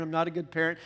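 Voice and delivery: a hint of a guilty mom, leaning on "not"; self-blaming parent. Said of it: "those you guys who beat yourself up".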